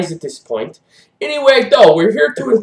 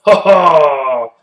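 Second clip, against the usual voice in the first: mock dismay; 3 semitones higher, 6 dB louder, slower than usual. Co-host caught forgetting his accent, loud mock dismay. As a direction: cry out in hammed-up dismay.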